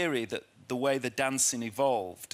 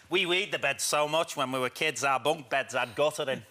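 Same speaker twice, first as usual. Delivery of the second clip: Lily impersonation. Retold or imitated. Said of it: "I used to do a Lily impersonation".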